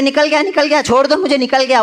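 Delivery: high, urgent cry of a man in pain; pained plea. Retold or imitated. Man whose eyes are pressed begs the baba to let go, high pained cry. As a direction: beg them to stop, claiming it's gone.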